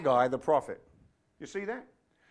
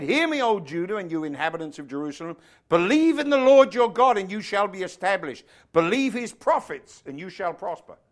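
loud, ringing scripture proclamation; proclaiming; 3 semitones higher, 6 dB louder than usual. Acted. King standing to address Judah and Jerusalem, proclaiming. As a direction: declare it forcefully, punching each command.

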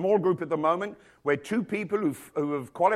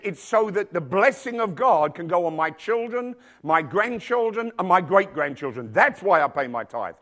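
emphatic retelling; 4 dB louder than usual. Retold or imitated. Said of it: "he was so emphatic about it".

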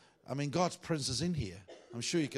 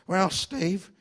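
put-on high, loud old cowboy pastor; Clark Taylor; 7 semitones higher, 9 dB louder than usual. Pastor calling out to his young trainee, mimicked high and loud. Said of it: "he talks like this".

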